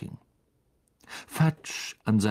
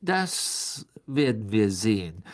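understated spite; spiteful. A narrator's reading. Governor answering the doubting minister, spitefully. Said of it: "sagte Mister Malfoy gehässig".

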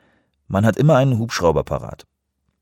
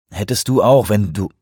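louder retort, cut short; breaking off; 6 dB louder than usual. A narrator's reading. Man snapping back at his assistant, breaking off. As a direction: start a raised retort, then stop mid-sentence. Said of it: "er brach ab".

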